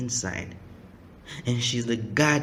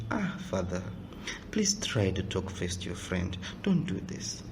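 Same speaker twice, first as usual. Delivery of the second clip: softer, lower gentle plea; soft pleading; 5 semitones lower, 8 dB quieter than usual. Retold or imitated. A preacher voices a wife softly calming her angry husband. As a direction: coax him quietly like a calming wife.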